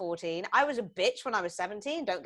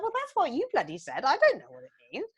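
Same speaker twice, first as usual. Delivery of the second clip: retold exasperation; 5 semitones higher, 4 dB louder than usual. Acts out her retort to daughter.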